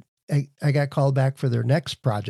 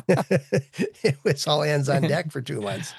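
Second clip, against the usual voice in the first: laughing; slower than usual. Real, not acted. Laughing while telling client story.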